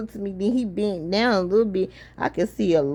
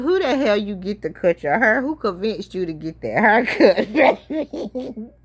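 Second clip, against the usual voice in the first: laughing question. Retold or imitated. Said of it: "I said".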